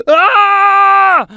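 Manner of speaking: loud, high raging yell; fury-building scream. A narrator's reading. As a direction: scream to whip up rage. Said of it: "Alam screamed to build up the fury".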